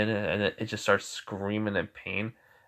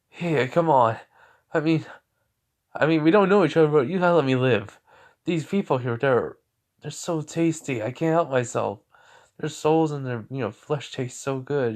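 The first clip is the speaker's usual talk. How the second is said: a higher, louder wheedling demon voice; lightly voiced greedy demon; pleading demon; 4 semitones higher, 3 dB louder than usual. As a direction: whine and bargain to be spared.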